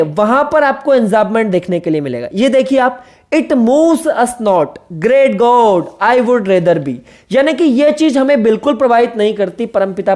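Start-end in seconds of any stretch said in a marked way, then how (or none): 3.3-6.9 slow, measured reading of a poem line; teacher quoting the poem. Shown as a demonstration. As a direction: read the verse slowly, line by line. Reads enjambed line.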